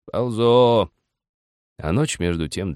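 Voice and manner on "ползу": loud, drawn-out effortful reply; straining old man. A narrator's reading. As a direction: groan the word out while climbing.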